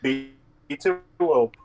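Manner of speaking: glitchy robotic mic voice; choppy robot-sounding connection. Real, not acted. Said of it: "your voice is roboting".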